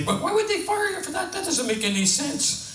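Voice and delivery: squeaky bewildered question; high-pitched. Acted. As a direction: pitch way up in disbelief. Punchline setup, high voice.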